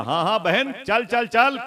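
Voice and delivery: high, insistent urging; eager aunt. Retold or imitated. Aunt telling her sister to come along, eager.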